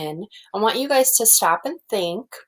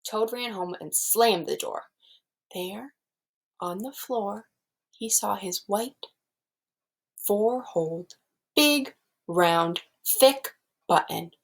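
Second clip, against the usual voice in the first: put-on lively read-aloud for young children; storybook reading; 2 semitones higher than usual. Teacher reading Frog and Toad aloud to her class. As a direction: read it like a picture book to a class.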